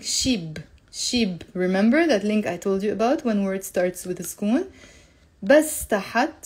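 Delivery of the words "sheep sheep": "sheep" said as "sheeb", B joined on; linked B. Shown as a demonstration. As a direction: link the B onto shi in "sheep". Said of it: "you can do that link".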